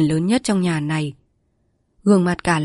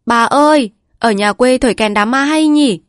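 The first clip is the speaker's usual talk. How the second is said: put-on higher, brisk and louder, a chattering child; excited child voice; 6 semitones higher, 6 dB louder than usual. A narrator's reading. Granddaughter telling grandma her plans, excited child voice. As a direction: bubbly kid racing through her plans.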